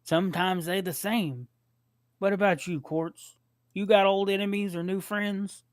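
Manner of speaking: slow, simple Shakespeare voice; Sling Blade voice. Acted. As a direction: keep the dull, slow drawl. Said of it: "get it right".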